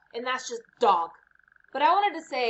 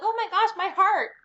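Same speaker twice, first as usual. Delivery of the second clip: mock swoon; 9 semitones higher, 5 dB louder than usual. Mock swoon over heart.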